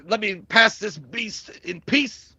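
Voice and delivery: slow gruff mountain man voice; lightly voiced mountain man; Joe Grizzly. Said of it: "Joe Grizzly".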